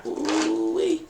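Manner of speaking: high ooh-wee at normal volume; surprised ooh-wee. Real, not acted. Sudden realization during card reading.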